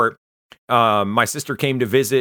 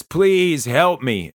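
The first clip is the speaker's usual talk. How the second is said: slow, higher pleading please help me; retelling a drunk friend's tearful plea, mildly acted; retold crying plea; 5 semitones higher, much slower than usual. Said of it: "looks up at me crying and says".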